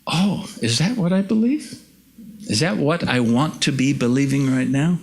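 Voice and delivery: high, startled self-questioning; sudden realization. Retold or imitated. Preacher catching his own words after his wife's remark, surprised. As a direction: catch yourself off guard and ask it. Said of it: "I realize".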